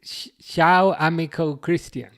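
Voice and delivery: ciao amico Christian in a plain Birmingham accent, no Italian attempt; Italian read in a Birmingham accent. Shown as a demonstration. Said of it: "do it in my Birmingham accent".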